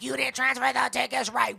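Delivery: put-on mocking voice for a clerk; mocking ticket lady. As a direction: mimic the annoying ticket lady. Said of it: "The stupid lady was like".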